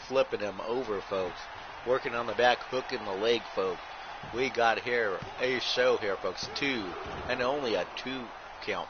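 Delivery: running ringside commentary calling every move; wrestling play-by-play. Acted. Commentator calling a blindfolded wrestling match to viewers, play-by-play. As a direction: call the match move by move, punching each folks.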